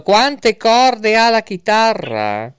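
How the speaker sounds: slow, loud and high, repeated for a bad line. Real, not acted. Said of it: "Ho detto". (ripetuto più forte e lento)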